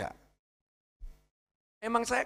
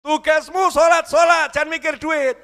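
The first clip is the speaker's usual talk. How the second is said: booming divine command; 10 semitones higher, 8 dB louder than usual. Retold or imitated. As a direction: thunder it down like a stern master. Voicing God's answer. (suara Tuhan menggelegar, lambat dan keras)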